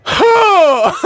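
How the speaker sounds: loud high yelp; startled yelp. Retold or imitated. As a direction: yelp in sudden fright. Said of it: "I'd be like".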